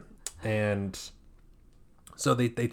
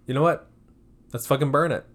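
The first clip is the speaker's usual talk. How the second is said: raised, louder fired-up mock decision; loud mock shout; 5 semitones higher, 5 dB louder, faster than usual. Characters deciding to burn the body, loud mock shout. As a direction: shout it like a reckless horror victim.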